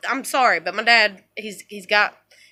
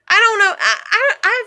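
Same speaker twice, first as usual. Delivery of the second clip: laughing; 8 semitones higher, 4 dB louder than usual. Real, not acted. Laughs at her swimming bullies.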